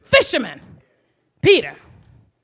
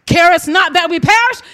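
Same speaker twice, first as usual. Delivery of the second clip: panicked cry; 3 semitones lower, 4 dB louder than usual. Acted. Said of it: "it's in a panic state".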